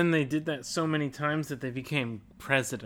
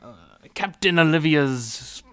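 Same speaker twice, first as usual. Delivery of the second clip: pirate voice. Pretend. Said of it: "This is a great pirate voice".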